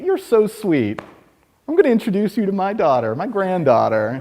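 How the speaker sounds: put-on old lady voice. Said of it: "make them feel sexy".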